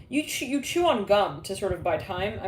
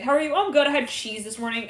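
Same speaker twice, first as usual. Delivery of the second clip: nervous chatter; 5 semitones higher, 3 dB louder than usual. Retold or imitated. Nervous small talk acted.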